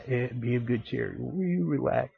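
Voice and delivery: calm them down under the breath; soft calming word. Retold or imitated. The Lord soothing grumpy men, hushed and soft.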